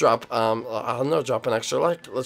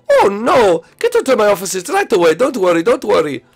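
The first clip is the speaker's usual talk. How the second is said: doctor on phone; 4 semitones higher, 4 dB louder than usual. Pretend.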